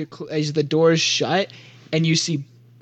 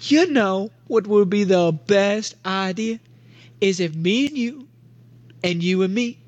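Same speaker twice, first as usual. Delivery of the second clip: put-on higher-pitched goofy kid character; Big Tim; 5 semitones higher than usual. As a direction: put on an eager, over-friendly oddball voice. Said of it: "and Big Tim goes".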